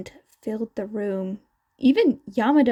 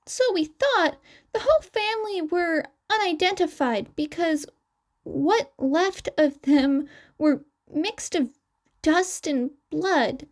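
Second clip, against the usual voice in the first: clearly higher, youthful twin character voice; 6 semitones higher than usual. Acted. Twin explaining to the interviewers, raised higher voice. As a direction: chirp the lines up high like the young twin.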